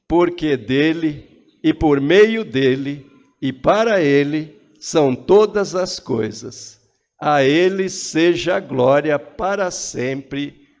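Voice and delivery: loud congregational recitation; shouting. Real, not acted. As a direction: proclaim it with full voice. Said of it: "com a voz muito forte".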